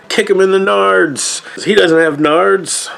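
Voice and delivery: put-on high excited kid taunt; kid's taunt. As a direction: shout it up high like a gleeful kid.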